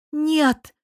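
sudden high cry of no; a girl finally bursting out in protest; outburst. A narrator's reading. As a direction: blurt it out, high and loud. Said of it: "наконец выкрикнула Ждана".

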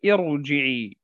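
ارجعي with a thick, heavy ra; ارجعي stressed on the heavy ra. Shown as a demonstration. Teacher isolates the word for students, heavy ra. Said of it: "الراء تفخم".

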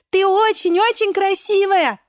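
high, loud chorus cry; cherries shouting. Acted. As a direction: cheer her up loudly. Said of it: "кричат хором вишенки". (вишенки кричат хором)

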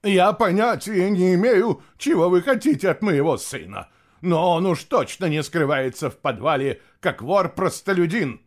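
high, loud, haughty protest; indignant. A narrator's reading. Mother fends off men seeking her son, indignant. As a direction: protest in outraged offence. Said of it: "возмущённый голос Целиссы".

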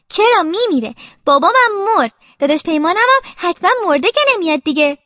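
a touch of upset protest; insistent child. Acted. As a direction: argue back stubbornly. Child argues back that people die.

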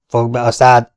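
loud angry shout to silence him. A narrator's reading. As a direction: bark it to shut him up. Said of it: "üvöltött rá Vergeron". (dühös, hangos rákiáltás)

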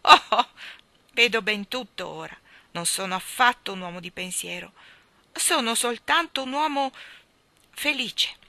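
mildly elated, with a big loud "Oh"; happy. Acted. King declaring himself simply a happy man, happy. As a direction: rise in pitch towards a happy close. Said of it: "con un riso felice continuò".

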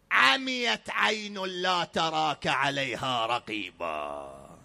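slow, drawn-out chanted prayer; supplication recitation. Acted. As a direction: intone it like a devotional prayer. (تلاوة دعاء بطيئة)

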